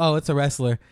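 even, matter-of-fact reply; very calm. Retold or imitated. Audience member answering the comedian's question, very calmly. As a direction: explain it without any fuss. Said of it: "very calmly".

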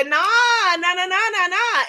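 mock overruling, voice up; retold playful refusal. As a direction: imitate brushing an idea aside. Acts out Spirit overruling her.

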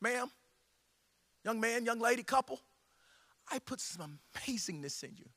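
soft, measured voice of God asking; hushed, probing appeal; God's gentle questioning. Acted. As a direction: drop low and quiet, pausing between phrases. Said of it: "God's saying".

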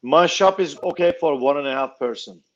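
ordinary talk

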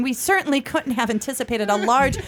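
light touch of a polished tour guide. Acted. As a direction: announce it like a theme park tram guide. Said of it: "I can hear you on that tram".

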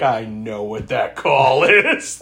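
slow, smug, knowing; smug smirk. Retold or imitated. Host imitating Loomis smirking at the phone call, slow and smug. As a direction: savor it like a smirking doctor. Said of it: "Loomis just slowly starts to smirk".

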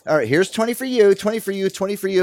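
high, punchy mock generosity; mock sarcastic handout. To the fundraisers, a high sarcastic mock handout. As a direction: toss each twenty with sarcasm. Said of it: "I was about to give it".

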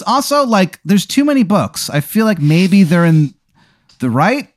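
put-on high, wavering old judge; silly judge voice. Judge asks the court if he is crazy, high and silly. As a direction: play the judge as a doubting old man in a high voice.

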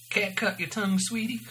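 lightly voiced sassy New Jersey waitress; a hint of New Jersey. A narrator's reading.

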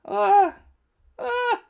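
excited gasp. Real, not acted. Close fall in the match.

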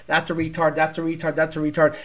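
low, soft, even repetition; casual muttered judgment. Pretend. Walking around judging everyone, low muttered repetition. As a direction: say it under your breath, same each time.

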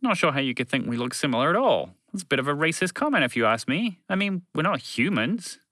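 a touch of an indignant alien; lightly voiced alien creature, affronted.

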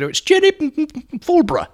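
put-on very high, loud tipsy old lady voice; Jenny Fulborough voice. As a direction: trill like a dotty dame after a few sherries. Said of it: "So I said".

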